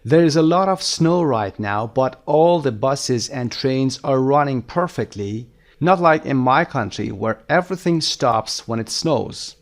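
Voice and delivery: very slow, deliberate English read-aloud; measured dictation pace; slow lesson reading. Shown as a demonstration. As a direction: read it out slowly for language learners. Reads lesson text aloud.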